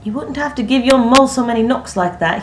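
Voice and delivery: high, loud tease; teasing. A narrator's reading. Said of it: "he teased".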